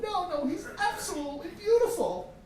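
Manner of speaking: put-on high, gushing child's protest; little sister insisting. Little sister defending her pet's looks, high and adamant. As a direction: insist adoringly in a little-girl voice. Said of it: "And she said".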